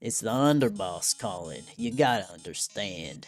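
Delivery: light Southern US character voice; Southern accent. Acted. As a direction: play a folksy Southern tough guy. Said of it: "localize him as very southern".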